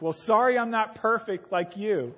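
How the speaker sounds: mock-wounded sarcastic retort; a boy talking back to his parents, a touch defensive. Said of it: "so I get defensive and I'm like".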